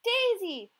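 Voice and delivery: high, loud cry of a name; joyful shout of recognition. A narrator's reading. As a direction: call out to the lost hen. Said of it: "May May shouted".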